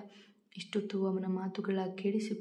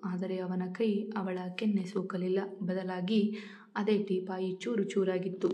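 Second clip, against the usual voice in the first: plain reading voice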